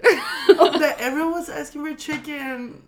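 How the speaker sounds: really welling up mid-sentence; crying while laughing. Real, not acted. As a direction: voice rising into tearful laughter. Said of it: "she's crying right now".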